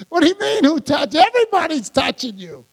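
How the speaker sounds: incredulous retort, starting high and coming down; hammed-up "isn't it obvious" protest; mock disgusted. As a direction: imitate a disciple's exasperated disbelief. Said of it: "Peter was probably disgusted".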